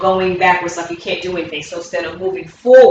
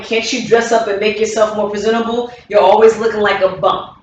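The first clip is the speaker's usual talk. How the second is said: critical partner; 2 semitones higher than usual. Shown as a demonstration. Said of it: "The last one".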